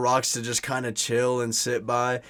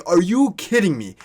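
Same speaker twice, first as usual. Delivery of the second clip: pissed off; 5 semitones higher, 6 dB louder than usual. Retold or imitated. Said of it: "I'm pissed".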